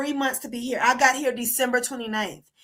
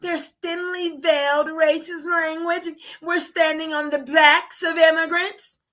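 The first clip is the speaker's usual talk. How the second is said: mocking robotic pundit; 3 semitones higher than usual. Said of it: "They always speak like fucking robots".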